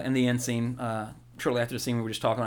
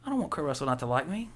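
higher, pleading fan voice; mock panic; 9 semitones higher than usual. Friend scrambling so Kurt Russell likes him, mock pleading. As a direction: plead nervously to win him back. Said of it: "And you're like".

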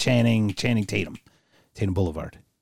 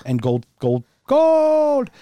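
quoted yell; 13 semitones higher, 4 dB louder, much slower than usual. Retold or imitated. Caddyshack quote, rising to a yell.

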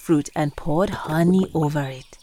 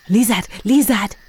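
calling out with excitement; excited hyena; 3 dB louder than usual. Acted. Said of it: "said Hyena with great excitement".

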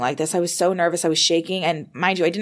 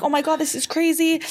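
high-pitched amazed reenactment; retold freaking out; 10 semitones higher than usual. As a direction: act out giddy disbelief up high. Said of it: "I'm, like, freaking out".

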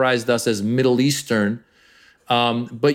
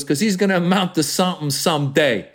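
Italian mob boss; 5 semitones higher than usual. Acted. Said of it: "doing the Italian guy".

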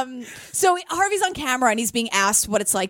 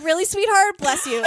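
mock sweet; 5 semitones higher than usual. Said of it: "in the worst way".

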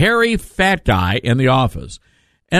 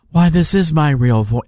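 mocking impression. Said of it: "he talks like this".

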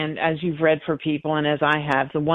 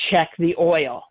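husband's voice; slower than usual. Retold or imitated. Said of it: "I heard my husband say".

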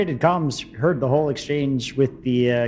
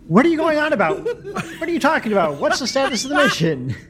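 exasperated mission controller; 11 semitones higher than usual. Acted. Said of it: "It's like".

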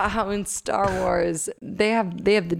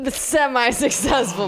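mock job ad read. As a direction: read it like a hiring ad. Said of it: "She's written the script for this".

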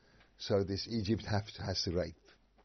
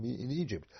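usual speaking voice

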